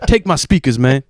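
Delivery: imitated Black American speech. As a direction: imitate roommate's Black American way of talking, unhurried. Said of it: "he talked like a black guy".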